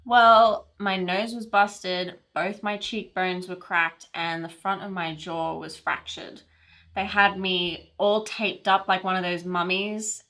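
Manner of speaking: animated retelling, punchy on the outrage; lightly acted indignation, settling into the injuries; aggrieved accident storyteller. Woman recounts being hit crossing the street, animated storytelling. Acts a monologue from a script.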